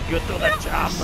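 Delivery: half-hearted action-hero impression; Arnold Schwarzenegger. Player calling in Arnie against Predator, failed impression. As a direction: attempt a movie tough guy's catchphrase, badly. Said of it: "I can't do an Arnold Schwarzenegger impression".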